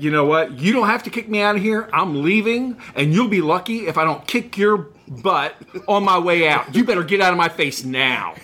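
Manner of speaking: angry threat, pitch jumping up on the middle lines; retold angry threat. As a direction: replay the furious warning at the sales manager. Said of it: "spitting, snarling, so mad".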